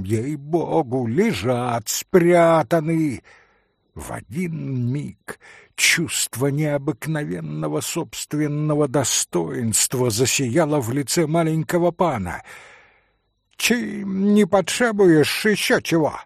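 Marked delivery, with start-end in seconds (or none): 0.0-3.2 mild faltering plea. Acted. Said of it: "труся и падая духом". 13.6-16.2 higher, louder ironic jab. Acted. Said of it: "спросил он иронически".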